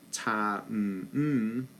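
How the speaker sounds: ta cut off into a rest; short note then rest. Shown as a demonstration. Teacher demonstrating a short note with rest, clipped. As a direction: clip the ta short, then leave a silence. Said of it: "in this rhythm there's rest".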